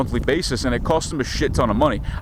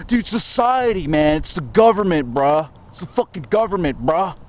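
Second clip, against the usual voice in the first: hippie voice; 3 semitones higher than usual. Acted. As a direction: play it like a spaced-out hippie. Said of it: "I sound like a fucking hippie now".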